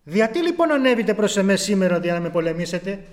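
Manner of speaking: solemn, measured reading of the Bible; scripture reading. Acted. Preacher reading Judges aloud to the brethren, solemn. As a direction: read the verse out with gravity.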